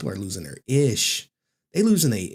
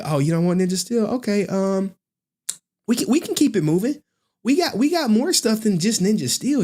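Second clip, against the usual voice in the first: high-pitched hustling seller, talking fast; a hyped-up seller working a customer; pushy street seller; 6 semitones higher than usual. Retold or imitated. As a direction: push the merch like a corner hustler. Seller hustling a reluctant buyer.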